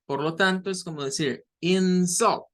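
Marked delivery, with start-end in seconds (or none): 1.6-2.5 "insult" stressed on the second syllable, in-SULT. Shown as a demonstration. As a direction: say "insult" as a verb, punching "-sult". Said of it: "la sílaba tónica es la segunda".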